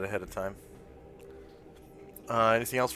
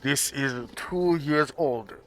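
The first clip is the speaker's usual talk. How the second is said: shopkeeper voice; 2 semitones higher, slower than usual. Acted. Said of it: "he says".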